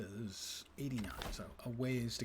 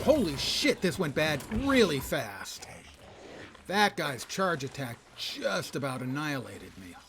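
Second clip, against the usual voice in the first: much higher, louder alarmed outburst, then slow; real shock; 4 semitones higher, 10 dB louder, slower than usual. Real, not acted. Gamer nearly killed by a charge attack cries out in real shock. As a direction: blurt it out, truly caught off guard.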